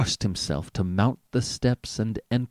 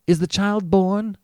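begging; 9 semitones higher, 6 dB louder than usual. A narrator's reading. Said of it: "begged Mister Button".

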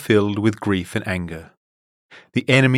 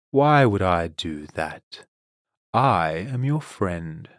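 condescending; slower than usual. Acted. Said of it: "with a condescending smile".

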